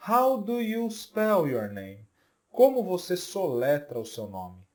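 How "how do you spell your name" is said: slow, clear second take of the question; slow repeat of the model. Shown as a demonstration. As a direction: repeat it slowly for learners to copy. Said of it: "Então, olha só". (repetição lenta e clara)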